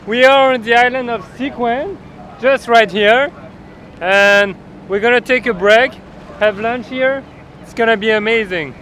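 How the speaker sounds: loud put-on French accent. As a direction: play the French host. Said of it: "Shit, I forgot my French accent".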